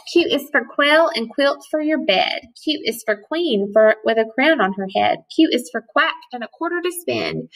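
bouncy rhyming reading; poem recital. Acted. Teacher reading a Q rhyme to kids, sing-song.

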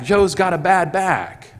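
brother-in-law insisting on prayer; excited urging. Retold or imitated. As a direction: press it like an excited friend.

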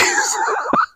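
high, unvoiced giggle; high breathy giggle. Real, not acted. After teasing his viewers, a high breathy giggle. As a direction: laugh off his own joke. Laugh after mock threat.

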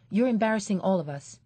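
quick, sharp telling-off; fast scolding. Acted. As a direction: hurry the scolding out. Mother scolding child.

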